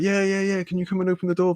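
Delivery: high, hurried-sounding retold begging; eager plea. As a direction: act out pleading to be let in.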